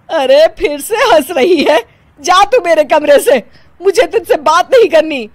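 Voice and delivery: angry. Acted. Mother-in-law ordering the laughing bride out, angry. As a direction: throw her out of the room.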